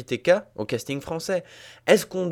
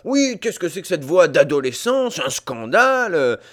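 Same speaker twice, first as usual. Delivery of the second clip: mock protest; 3 semitones higher, 4 dB louder than usual. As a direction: play up a scandalised public outcry. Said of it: "les gens ont protesté". (protestation indignée et caricaturée)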